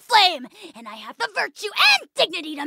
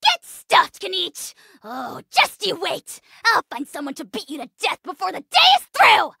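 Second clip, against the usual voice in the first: indignant outburst. Acted. Ahau insulted by Kinich, indignant outburst. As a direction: snap back in petty fury.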